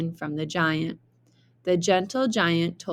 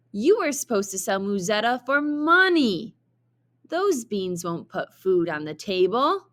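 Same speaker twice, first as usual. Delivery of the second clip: scolding mother; 3 semitones higher than usual. Acted. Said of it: "yelled Jack's mother".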